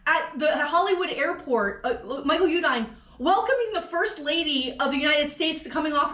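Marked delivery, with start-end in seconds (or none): 0.1-1.1 high-pitched, animated telling-off; exasperated scolding. Pretend. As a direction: scold the absent politician in a raised voice. Scolding the absent politician.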